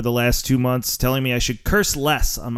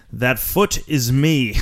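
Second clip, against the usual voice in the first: quoting the dean; 2 semitones lower, much slower than usual. Retold or imitated. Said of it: "like the dean says in Animal House".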